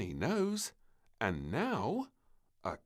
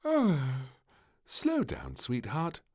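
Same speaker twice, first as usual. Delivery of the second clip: yawning; 7 semitones higher, 5 dB louder, slower than usual. A narrator's reading. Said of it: "yawned the queen".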